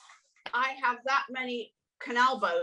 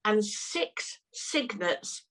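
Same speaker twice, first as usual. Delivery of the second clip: hushed whisper; 3 dB quieter, much slower than usual. Real, not acted. Hushed moment in swan story.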